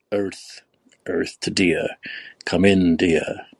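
breathy whispered call. Real, not acted. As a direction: whisper it into the mic. Calling someone on a muted mic.

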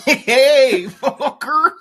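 loud, high, laughing Cholo imitation; LA Cholo accent. Friend echoing a Cholo greeting, loud mock Cholo accent. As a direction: echo the Cholo greeting loudly. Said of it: "L A Cholo guy".

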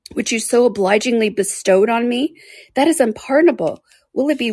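put-on betrayed young woman reading his cruel letter; Marianne, wounded fury. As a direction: rail at him through hurt. Marianne rails at Willoughby.

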